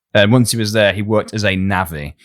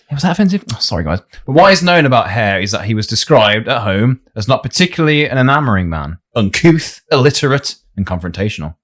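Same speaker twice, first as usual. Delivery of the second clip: usual speaking voice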